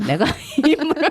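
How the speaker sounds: high, quick words through laughter; laughing. Real, not acted. Retelling lone diner being told to order two portions, laughing. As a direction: crack up mid-retelling.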